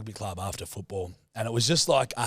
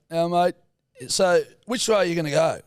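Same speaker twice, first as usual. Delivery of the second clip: imitating dad; 7 semitones higher, 5 dB louder than usual. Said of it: "he's like".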